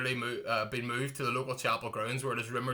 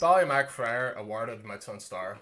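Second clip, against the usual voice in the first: headline read; 4 dB louder than usual. Acted. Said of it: "I'll read it out for you".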